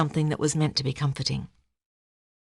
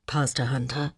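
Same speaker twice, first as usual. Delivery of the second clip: low, gravelly greeting; rough-throated and subdued; 4 semitones lower, 4 dB quieter than usual. A narrator's reading. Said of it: "he said in a gravelly voice".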